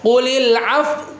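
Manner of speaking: Qulil af- with lips pushed forward, slow; lips pursed. Shown as a demonstration. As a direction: round the lips into a pout on af-. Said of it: "Qulil afunya aja".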